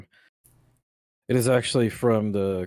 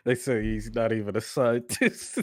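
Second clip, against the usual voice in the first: laughing. Real, not acted. Laughing while reporting the claim.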